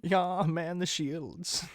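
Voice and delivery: slow, high robotic voice; a hint of a robot captain. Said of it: "the Genatsu robot voice".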